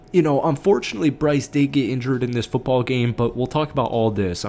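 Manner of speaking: breathless, talking between breaths. Real, not acted. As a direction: speak while short of breath. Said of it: "I'm getting a little out of breath".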